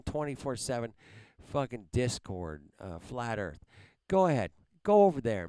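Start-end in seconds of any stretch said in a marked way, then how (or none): 4.1-5.5 angry yell. Real, not acted. Angry streamer yelling at viewers.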